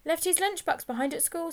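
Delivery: high-voiced, anxious schoolboy explanation; hurried schoolboy excuse. A narrator's reading. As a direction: blurt out a cover story as a nervous boy. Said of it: "said Whippet very quickly".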